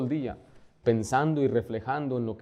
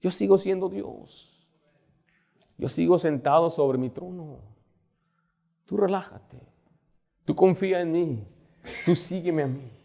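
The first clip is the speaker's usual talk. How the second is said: God quietly saying be still; gentle voice of God; 3 semitones higher, 3 dB quieter than usual. Retold or imitated. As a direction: speak as God calming his child, softly. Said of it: "el Señor nos está casi gritando".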